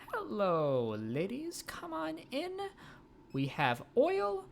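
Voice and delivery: high, bright sales pitch voice; salesperson voice. Acted. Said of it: "time for cold calls".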